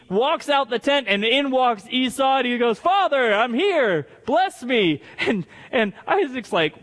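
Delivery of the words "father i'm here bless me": higher-pitched mock call to father; imitating an expectant son; eager son calling. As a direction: announce yourself eagerly, lightly acted. Esau arrives calling to father.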